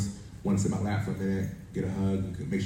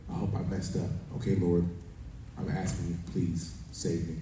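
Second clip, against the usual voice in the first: soft, subdued plea to God; humble prayer; 2 semitones lower, 5 dB quieter than usual. Acted. Stuck sinner asks the Lord for rescue, quiet humble prayer. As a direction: pray it quietly, slowing on the last plea.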